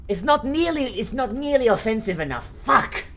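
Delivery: high-pitched exasperated outburst; hammed-up, high frustration; mock frustration. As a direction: curse in exaggerated dismay. Mock dismay at low accent rating.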